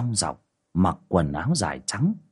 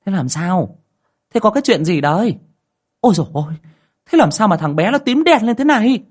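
louder and higher, alarmed rapid questions; pressing questions; 10 semitones higher, 6 dB louder than usual. A narrator's reading. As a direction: fire questions in a panic at the sick baby. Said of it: "hỏi dồn". (hỏi dồn dập, to và cao, hốt hoảng)

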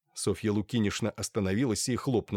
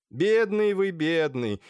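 sympathetic; 6 semitones higher, 4 dB louder, slower than usual. A narrator's reading. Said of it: "сочувственно".

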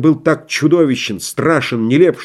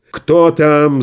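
booming; 3 semitones higher, 4 dB louder than usual. A narrator's reading. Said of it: "загремел Мышлоевский".

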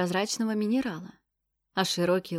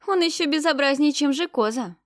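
брезгливо; 7 semitones higher, 5 dB louder than usual. Acted. Девушка с отвращением о духе.

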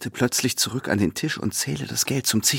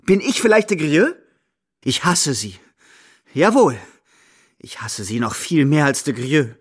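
hissed hatred; 5 semitones higher, 3 dB louder than usual. A narrator's reading. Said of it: "zischt sie".

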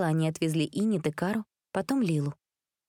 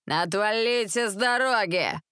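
put-on drunken yell; 4 semitones higher, slower than usual. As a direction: bawl at the crowd, drunk and reckless. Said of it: "орал пьяный Рик".

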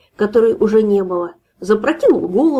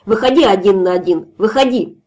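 put-on drunk challenge; 4 dB louder than usual. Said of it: "закричал хозяин".

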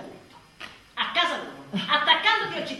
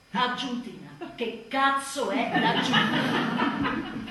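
baffled; 4 dB louder, much slower than usual. Acted. Baffled mother.

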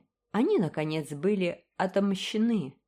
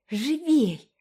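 out of breath, high urgent cry; breathless; 8 semitones higher, 5 dB louder than usual. A narrator's reading. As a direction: gasp it out. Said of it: "задыхаясь, воскликнула". (задыхаясь)

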